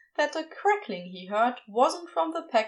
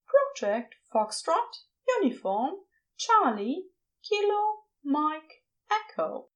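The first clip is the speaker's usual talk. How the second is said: Aziraphale voice; 5 semitones higher than usual. Acted. Aziraphale spells it coyly.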